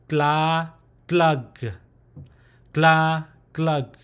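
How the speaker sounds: "gla, glug" with a clear GL onset; Green Mong pronunciation. Shown as a demonstration. Teacher showing the Green Mong dialect sounds, demonstrated pronunciation. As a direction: say "gla" long and open, then "glug". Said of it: "For the Green Mo".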